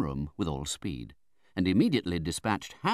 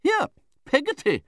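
very high, loud summons; calling out; 6 dB louder than usual. A narrator's reading. Aunt summons the servant from the parlour, commanding. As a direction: cry out for the servant. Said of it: "cried Miss Betsy".

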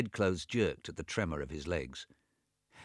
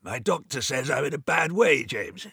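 panting; 7 semitones higher, 5 dB louder than usual. A narrator's reading. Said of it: "He panted".

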